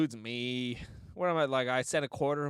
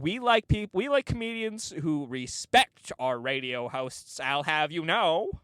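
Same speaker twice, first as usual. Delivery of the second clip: mock indignation; 4 dB louder than usual. Mocks indignant commenters online.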